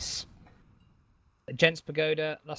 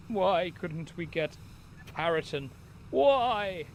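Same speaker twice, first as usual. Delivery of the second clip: vampire voice. Pretend. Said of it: "in my vampire voice".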